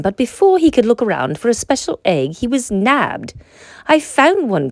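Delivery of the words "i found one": put-on higher, brighter child's cry of discovery; proud shout of finding it; excited cry. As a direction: Max announces his find at the egg hunt, excited. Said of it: "cried Max".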